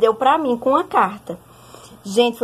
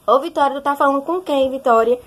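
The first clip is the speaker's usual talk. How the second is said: lightly voiced mother, slightly higher pitch; questioning mother; 4 semitones higher than usual. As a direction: call out like a mother checking up on her daughter. Mother interrupting late-night call, voiced. (mãe cobrando a filha, de leve)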